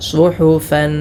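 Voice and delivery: സുഹുഫൻ with a full heavy swad. Shown as a demonstration. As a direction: thicken the s in സുഹുഫൻ. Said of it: "ഇവിടെ സ്വാദാണല്ലോ". (സുഹുഫൻ സ്വാദിൽ കനപ്പിച്ച്)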